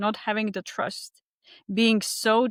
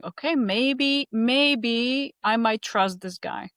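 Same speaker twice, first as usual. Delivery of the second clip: cautious, slowly warming; half-trusting, drawn out; hesitant inner voice; 3 semitones higher, slower than usual. Retold or imitated. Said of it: "that felt like a little bit opening".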